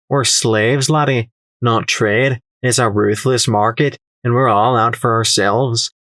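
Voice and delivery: put-on lightly accented trader lecturing; condescending merchant. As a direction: spell out hard truths to a naive lad.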